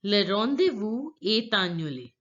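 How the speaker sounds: "est annulé" linked with a sounded T; French liaison. Shown as a demonstration. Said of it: "link the words together this way".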